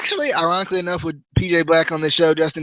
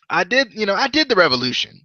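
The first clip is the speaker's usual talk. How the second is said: mock Indian accent, slightly raised pitch; Mahabali Shera; 4 semitones higher than usual. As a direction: imitate a wrestler's Indian accent, badly. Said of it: "quit with this terrible accent".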